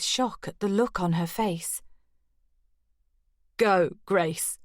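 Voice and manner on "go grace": changed voice. A narrator's reading. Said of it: "I hardly recognized her voice".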